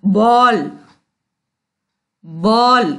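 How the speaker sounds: "बॉल" with a vowel between aa and o; rounded open o. Shown as a demonstration. Teacher shows the half-moon vowel, open rounded "बॉल". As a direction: say "बॉल" like English ball, each one set apart. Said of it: "उच्चारण कैसा होता है इसका".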